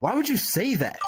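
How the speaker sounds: put-on rude tone. Retelling snapping back at their mom after she said something hurtful, retelling a rude tone. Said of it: "I said that to her in like in a bad tone".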